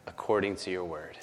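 a hint of humble Mary speaking; quiet surrender. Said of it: "And she said".

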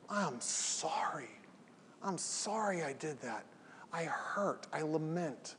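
soft, slow, heartfelt sorry to his wife; quiet, contrite confession; remorseful apology. Retold or imitated. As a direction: let the regret hush the voice. Husband voicing remorse to wife.

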